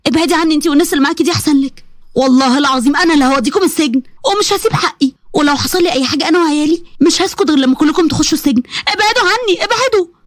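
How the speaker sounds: mild angry defiance; defiant wife. Acted. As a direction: stand your ground and threaten back. Maryam defying threats.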